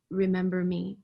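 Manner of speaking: soft, voiced hush of a remembered whisper; lightly imitating a whispered call; hushed, gentle echo of a voice; retold whisper. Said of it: "I hear this whisper".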